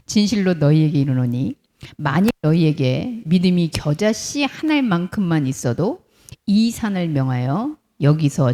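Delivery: 낮고 느리게 또박또박 읽는 낭독; 회중과 함께 읽듯 천천히, 낮게. Acted. Reads scripture aloud with congregation. (성경을 천천히 낭독하는 말투로)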